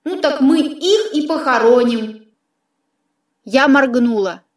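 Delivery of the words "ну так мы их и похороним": distant, filtered voice of a talking sword; filtered otherworldly sidekick; sword's disembodied voice. Acted. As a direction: speak as a disembodied companion, through an effect.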